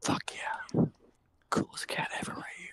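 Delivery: hushed, whispered under the breath. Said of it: "Why are we whispering?".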